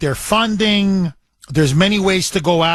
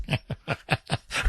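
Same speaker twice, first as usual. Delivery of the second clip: soft breathy laugh; 2 semitones lower, 12 dB quieter than usual. Real, not acted. Host laughs at own joke.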